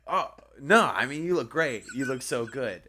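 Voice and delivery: high, loud acted scramble; hurriedly smooth it over, hammed up; panicked backpedalling. Retold frantic backpedalling to girlfriend.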